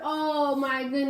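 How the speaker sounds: exclaiming over the sad page; dramatic oh my goodness for the kids; hammed-up gasp of sorrow; mock dismay. Teacher reacts to sad story.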